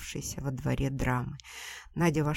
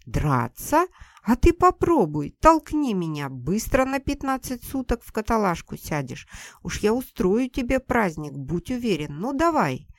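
loud, higher, daring him to shove her; furious challenging mother; 7 semitones higher, 10 dB louder than usual. Acted. Mother-in-law dares Seryozha to shove her, loud and furious. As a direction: goad him to strike, yelling.

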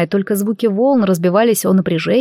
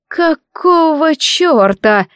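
pushed out hoarse, higher and very slow; hoarse forced-out curse; 7 semitones higher, much slower than usual. A narrator's reading. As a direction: rasp it out in disbelief. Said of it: "хрипло вытолкнула она из себя".

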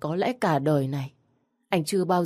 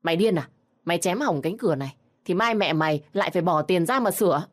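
loud scolding snap; shouting; 2 semitones higher, 4 dB louder, faster than usual. Acted. Mother-in-law yelling at her son hacking the door, loud scolding. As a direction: stop him with a sharp raised voice. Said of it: "bà lao lên và quát lớn".

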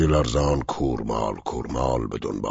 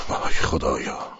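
slow anguished whisper. Acted. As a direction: let «خدایا» fall slowly in a breathless moan. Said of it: "گفت". («وای خدایا» را آهسته و نجواوار با درد بگو)

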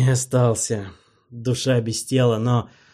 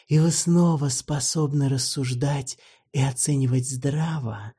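mock-formal vampire; 6 semitones higher than usual. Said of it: "Оскар улыбнулся".

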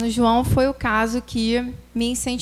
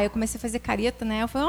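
ordinary delivery

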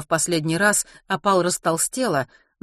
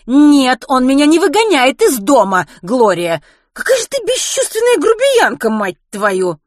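high, loud, outraged protest; indignant shouting; 8 semitones higher, 10 dB louder than usual. Acted. Kitty rails at unfeeling Gloria, indignant shouting. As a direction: yell and curse in outrage. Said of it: "возмущённо воскликнула Китти".

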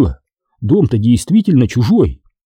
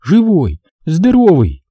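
high, mildly sobbing joy; tearful relief; 6 semitones higher, slower than usual. A narrator's reading. Mother seeing her son safe, tearful relieved exclamation. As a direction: marvel through light tears, voice lifted. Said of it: "всхлипнула мать".

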